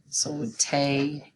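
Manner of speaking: "ta-" cut off before the ble; first syllable only. Shown as a demonstration. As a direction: give just "ta-" of table.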